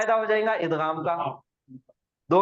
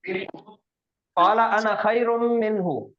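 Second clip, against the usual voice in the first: very slow, measured Quran recitation; much slower than usual. Shown as a demonstration. Teacher recites slowly so students repeat after him. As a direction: stretch every word so students can follow. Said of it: "teacher models verse for repeating".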